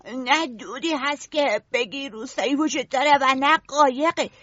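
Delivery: Simon losing hope, voice faltering; trembling voice. Acted. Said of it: "با صدایی لرزان گفت".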